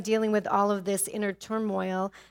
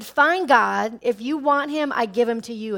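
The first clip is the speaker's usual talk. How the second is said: angry surrender; 2 semitones higher, 6 dB louder than usual. Retold or imitated. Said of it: "I was angry, and I said".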